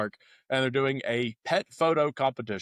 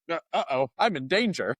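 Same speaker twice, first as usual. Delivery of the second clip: mock alarm; 6 semitones higher than usual.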